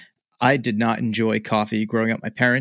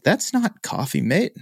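mild Irish brogue, pitched up; 5 semitones higher, slower than usual. Retold or imitated. Imitating Irish friend Keith scolding his coffee, light Irish brogue. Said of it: "got a brogue to him".

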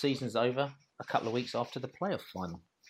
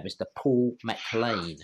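announcer introduction; much slower than usual. Acted. Introducing the guest grandly.

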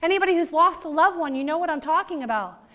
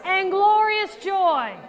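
smiling; 5 semitones higher than usual. Shown as a demonstration. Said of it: "now smile when you say it".

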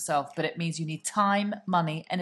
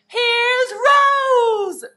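big mock showbiz announcement, much higher and louder; showy entrance call; 12 dB louder, much slower than usual. Announcing Rose's new hair to the girls, loud hammed-up compere. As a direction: herald the arrival like a compere. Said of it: "it's not too much like".

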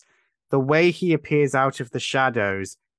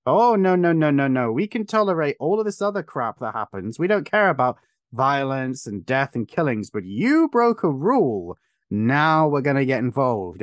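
mock outraged official. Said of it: "gets a response from the rest of this organization".

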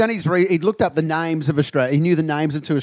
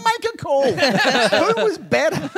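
much higher, pressing for an answer; pushy demand; 10 semitones higher than usual. Retold or imitated. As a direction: corner him into choosing. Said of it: "And I go".

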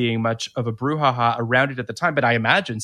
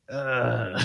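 uneasy groan; 6 dB quieter than usual. Retold or imitated. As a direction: groan quietly, put off by what you're watching. Retold reaction to audience laughing.

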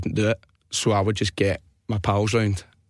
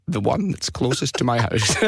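put-on old guy voice. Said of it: "pretend to be an old guy".

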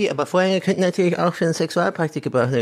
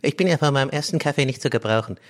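different voice. Pretend. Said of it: "auf einmal jetzt dann komplett anders klingen".

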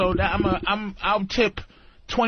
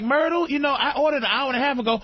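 annoyed customer; 8 semitones higher, faster than usual. Retold or imitated. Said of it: "It's like".

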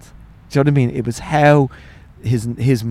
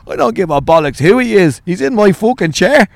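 raised-voice outraged dad; mock indignant outburst; imitated angry dad; 6 semitones higher, 3 dB louder than usual. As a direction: act out an indignant father, getting higher. Dad's outburst about priest in chair.

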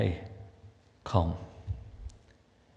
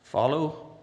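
scripture reading; 4 semitones higher than usual. Acted. Reads King James scripture aloud.

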